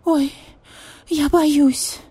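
high, loud scared squeal; scared cat. Acted. Cat frightened before flea treatment, high squeal. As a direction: recoil in fright like a kitten.

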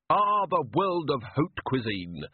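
lightly voiced, slow and happy refined gentleman; a hint of a cheerful posh old beggar; happy Duck Man. A narrator's reading. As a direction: savour the words like a fond memory. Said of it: "said the Duck Man happily".

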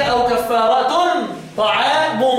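"كفارة" ending in held -tun, "طعام" ending -u; tanween and raf'. Shown as a demonstration. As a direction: recite kaffaaratun ta'aamu for "كفارة طعام". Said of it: "بالتنوين والرفع".

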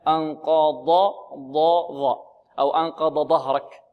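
stumbling over dad and zha; imitated student error. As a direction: mimic a student tripping on "أنقض ظهرك". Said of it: "طالب يقول". (تقليد خطأ الطالب)

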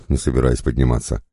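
ordinary delivery

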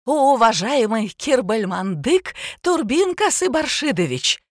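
grand official announcement; solemn reading. A narrator's reading. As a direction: read the name out like a formal proclamation. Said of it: "торжественно прочитала".

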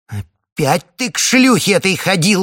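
high, loud howl of accusation; howling reproach. Acted. Wife howls at husband over the witch. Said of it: "взвыла Марфа".

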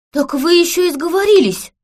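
high surprised gasp of a line; ахнула. Acted. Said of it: "ахнула сестра". (изумлённо ахая)

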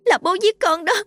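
put-on high-pitched sobbing child; wailing in fear. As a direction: cry out to mum in terror, gasping between phrases. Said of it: "nó lại ôm chầm mẹ mà gào khóc". (giọng trẻ gào khóc sợ hãi, nức nở)

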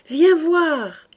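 put-on high, loud child's call; urgent call. A narrator's reading. Little girl pulling her brother to the garden, high loud call. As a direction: pull him along with your voice.

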